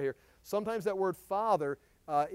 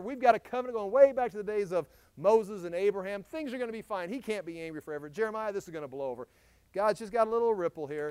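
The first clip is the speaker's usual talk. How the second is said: lightly voiced, breezy self-reassurance; complacent people; 3 semitones higher, 3 dB louder than usual. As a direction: imitate people brushing off any trouble. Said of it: "That's what they're saying".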